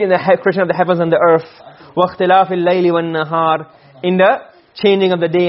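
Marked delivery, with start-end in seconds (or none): 2.0-3.7 fast, fluent recitation of the verse; Quran recitation. Shown as a demonstration. Teacher reciting the ayah to students, fast and fluent. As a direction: recite it quickly and evenly.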